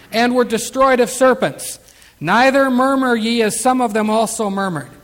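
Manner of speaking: preacher reading scripture aloud. Acted. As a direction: read the verse out firmly to the congregation.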